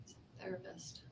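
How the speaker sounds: hushed whisper. Real, not acted. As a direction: whisper it, barely voiced.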